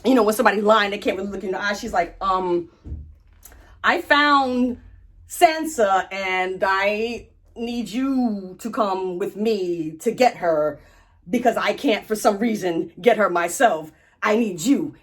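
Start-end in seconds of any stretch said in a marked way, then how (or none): 3.8-15.0 Brienne. Retold or imitated. Brienne lying haltingly to Jaime.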